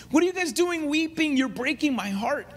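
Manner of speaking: a hint of a distraught apostle begging friends to stop weeping; pleading, heartbroken Paul. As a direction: pitch jumps high on the first question, voice straining with hurt. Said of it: "look at his emotional stress".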